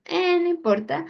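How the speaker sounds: high mock-cheeky kid, shrugging it off; defiant boy. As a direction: play a cheeky boy who ignores his mother. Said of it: "al niño como".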